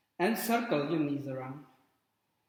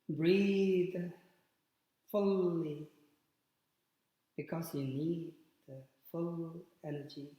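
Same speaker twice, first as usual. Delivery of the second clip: guided relaxation; 5 dB quieter than usual. Real, not acted. Yoga teacher guiding students into Shavasana, calm guided relaxation. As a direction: ease them gently into rest, with long pauses.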